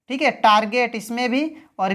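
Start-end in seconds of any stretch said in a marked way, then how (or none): 0.4-0.9 "टारगेट" with hard g before e. Shown as a demonstration. Teacher listing exceptions for learners, "टारगेट" with hard g. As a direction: say "टारगेट" with g, not j. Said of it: "लेकिन ग उच्चारण हो रहा है".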